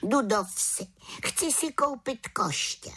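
a cheerful small witch with plans; little witch. Acted. The little witch invites Havran to the village, high and eager.

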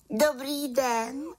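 high, slow, bright-voiced little witch greeting; little witch calling out. A narrator's reading. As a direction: call a cheerful hello as the little witch. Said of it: "zvolala malá čarodějnice". (vysoký hlas malé čarodějnice)

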